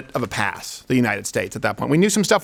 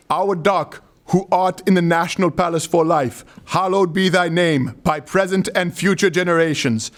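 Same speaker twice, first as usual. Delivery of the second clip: a hint of solemn prayer intonation; prayer recitation; 2 semitones higher than usual. A host reads the dictator's prayer in a light solemn tone. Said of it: "this is the Papa Doc prayer".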